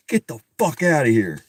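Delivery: loud, incredulous get the fuck outta here; disbelief. Real, not acted. Reader reacting to the twist in disbelief. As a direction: throw it out in stunned disbelief.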